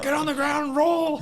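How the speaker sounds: high, laughing command; cartoon cop barking orders; mock cop shout. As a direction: yell the order through laughter. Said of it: "He's like".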